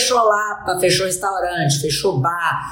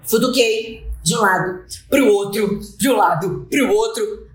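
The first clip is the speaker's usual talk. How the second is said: frantic retelling. Retold or imitated. Frantic search in the bag.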